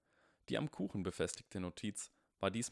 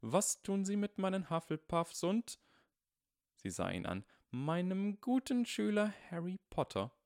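stern teacher voice; 11 semitones higher, 4 dB louder than usual. Acted. Teacher scolding, voiced older woman.

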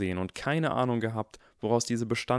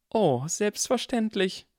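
mock agreement; 12 semitones higher, slower than usual. A narrator's reading. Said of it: "entgegnete Harrys Mutter".

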